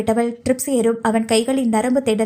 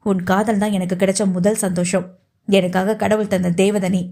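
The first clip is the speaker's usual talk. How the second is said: lightly voiced man, lower and heartfelt; tender lover; 3 semitones lower than usual. Patient consoling his sweetheart with his love, low and tender.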